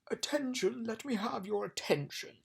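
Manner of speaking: high, commanding royal call; insistent king. A narrator's reading. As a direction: demand the room's attention. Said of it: "insisted the king".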